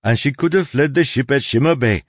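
insistent Soleil. Acted. Soleil argues to the crew that Tress is a mask, insistent. Voices Soleil arguing her case.

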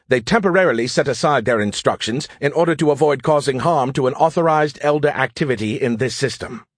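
exasperated AI explaining a problem; sarcastic know-it-all AI. Acted. AI telling Joe why the plan fails, exasperated. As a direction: lecture with lightly voiced, impatient superiority.

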